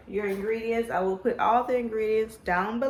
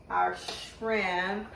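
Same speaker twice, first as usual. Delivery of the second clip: talking through braces; slight lisp from new braces; 2 semitones lower, 3 dB quieter than usual. Real, not acted. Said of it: "sorry, got braces".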